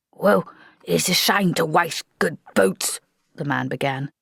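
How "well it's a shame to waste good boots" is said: whispered. Acted. Corporal muttering his excuse.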